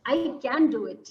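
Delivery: a firmer, slightly stronger "I can do it"; with confidence. Shown as a demonstration. Counselor shows the group the affirmation, said with confidence. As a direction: say it like you mean it. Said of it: "Say it with confidence".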